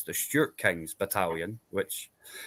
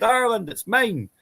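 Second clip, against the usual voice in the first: mock Braveheart conqueror; 12 semitones higher, 4 dB louder than usual. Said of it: "that guy come over and said".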